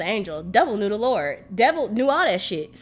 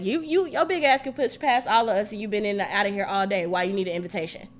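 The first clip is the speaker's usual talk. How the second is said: retold scolding. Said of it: "she was like".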